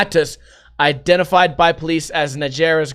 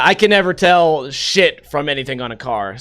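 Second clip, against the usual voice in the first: ordinary delivery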